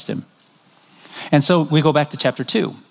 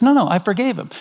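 higher pitched, brushing it off; mock dad insisting; 6 semitones higher than usual. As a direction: wave off the objection. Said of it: "I say to Drake".

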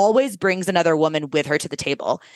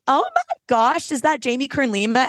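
feigned surprise; 4 semitones higher than usual. Retold or imitated. Feigned surprise at guest's entrance.

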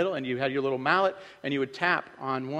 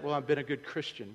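mock smug; 4 dB quieter than usual. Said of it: "You ever heard yourself say that".

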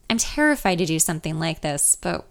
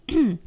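nervous throat clearing; 3 semitones higher than usual. Acted. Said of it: "My voice catches briefly and cracks".

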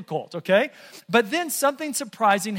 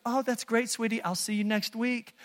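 softly spoken oblivious husband; mock nonchalance; 6 dB quieter than usual. Husband answering wife's labour call, blithely unconcerned. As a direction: brush it off sweetly and casually.

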